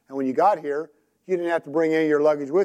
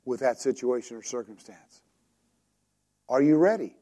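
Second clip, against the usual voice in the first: gentle voice of the Lord; 3 semitones lower than usual. Retold or imitated. Preacher voicing the Lord gently to a struggling believer. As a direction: speak gently, like comforting a friend. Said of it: "the Lord will just very gently say".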